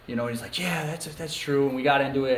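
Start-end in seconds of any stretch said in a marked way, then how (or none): 0.6-1.7 higher-pitched, drawn-out agreement; retold growing excitement. Man agreeing to do the electrical work, excitedly. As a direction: imitate someone warming to the idea. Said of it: "he got all excited".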